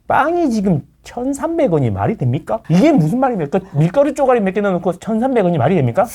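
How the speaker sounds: lightly voiced indignant rabble-rouser; mock agitator. Host imitating agitators over bread prices, mock indignation. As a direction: protest in mock outrage. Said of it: "얕은 지식으로 사람들 선동하는".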